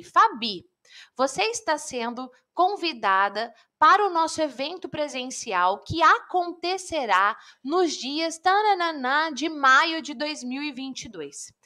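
slow, stiff, formal letter reading; stiff formal message. Shown as a demonstration. Inviting student Fabi to the event, stiff formal. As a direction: read it like a cold official notice. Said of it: "Eu mando uma mensagem assim".

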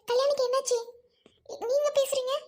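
anxious, pressing questions on the phone; agitated, anxious. Acted. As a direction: ask anxiously after a missing friend. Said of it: "கொஞ்சம் பதட்டப்படாம". (பதட்டத்துடன்)

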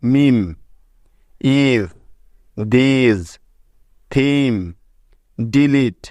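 each word separate, with a clear long ee; English example words. Shown as a demonstration. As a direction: pause after every word, as in dictation. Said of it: "যেমন দেখো". (শব্দের শেষে ই থাকলে ঈ উচ্চারণ দেখানো)

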